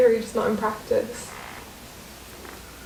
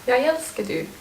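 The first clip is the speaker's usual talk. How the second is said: playful half-laughing take; jokingly; 3 semitones higher than usual. Shown as a demonstration. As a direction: toss it off as a joke. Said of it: "Say it jokingly".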